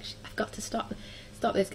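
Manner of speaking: half-whispered telling herself to stop; hushed self-scolding. Retold or imitated. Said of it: "and I was like".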